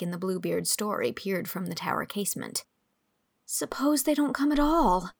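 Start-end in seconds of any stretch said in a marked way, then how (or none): 3.5-5.1 higher-pitched, plaintive worry; pitiful fretting; piteous. A narrator's reading. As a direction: plead it in a small, raised voice. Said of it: "she said piteously".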